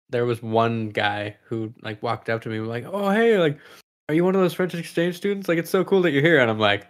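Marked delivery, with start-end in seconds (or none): 2.9-6.4 high-pitched gushing impression; mock-friendly, higher voice; imitated eager schoolmate. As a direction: gush brightly, as an impressed fan would.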